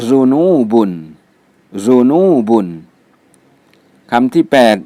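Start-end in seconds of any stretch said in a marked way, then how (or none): 0.1-2.7 ซูนูบุน read out carefully with a long middle "nuu"; careful Arabic pronunciation. Shown as a demonstration. Teacher reads a vocabulary word for learners, ซูนูบุน carefully pronounced with long นู. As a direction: say ซูนูบุน as a model, stretching นู. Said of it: "อ่านว่า".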